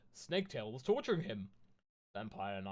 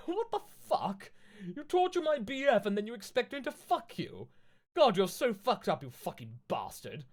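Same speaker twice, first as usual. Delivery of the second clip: much higher, louder, outraged rant; angry; 8 semitones higher, 6 dB louder than usual. Acted. Ebony screaming at Snaketail for torturing Draco, furious. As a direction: tear into him furiously. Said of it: "I said angrily".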